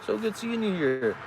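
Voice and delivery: high, gushing greeting voice; high mock-friendly greeting; imitating churchgoer. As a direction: mimic an overly friendly stranger.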